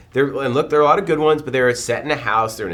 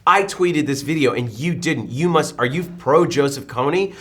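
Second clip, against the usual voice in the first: holier-than-thou; 3 semitones higher than usual. Retold or imitated. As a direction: imitate someone shaming others for not joining in. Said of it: "this holier than thou of like".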